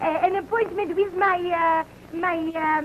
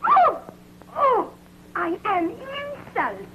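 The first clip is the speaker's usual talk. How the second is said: offended gasp; 4 semitones higher, slower than usual. Acted. Actress offended by co-star's jab.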